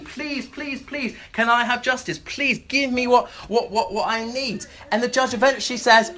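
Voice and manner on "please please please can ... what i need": high, whiny, desperate begging; pleading widow. Retold or imitated. The widow pesters the judge for justice, whiny pleading. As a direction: beg over and over like a pest. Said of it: "continually pleading".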